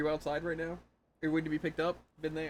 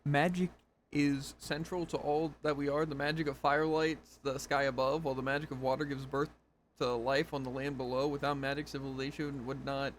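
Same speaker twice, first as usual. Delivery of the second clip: dramatic narration. Acted. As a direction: read the log like a grand speech. Reading a lore log aloud.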